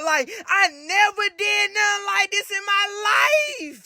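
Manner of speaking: hammed-up tearful complaint; about to cry. Scared cousin taken on a mission, mock tearful. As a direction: whine it as if tears are coming, stretching the last word. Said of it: "about to cry".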